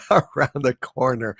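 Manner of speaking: laughing through the end of the line. Real, not acted. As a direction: break into laughter as you read. Laughing at donor's joke.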